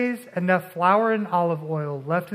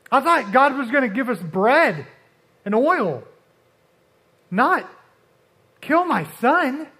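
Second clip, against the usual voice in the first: anguished widow; 4 semitones higher than usual. Acted. Widow's grieving complaint voiced.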